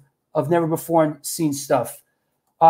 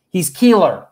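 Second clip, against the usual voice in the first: punched-up imitation of a singer's accent, louder; 5 dB louder than usual. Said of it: "a little bit of a Max accent".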